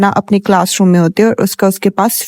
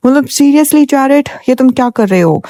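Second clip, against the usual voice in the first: amused disbelief; 5 semitones higher than usual. Real, not acted. Teller reacting to Jarrett changing clothes, mock shocked. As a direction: stretch out seriously in mock shock.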